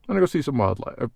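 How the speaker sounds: sign-off catchphrase delivery; vlog intro. Acted. Vlogger doing his habitual nature-walk intro line. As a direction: announce it like a channel opener. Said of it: "When you start doing something for four years".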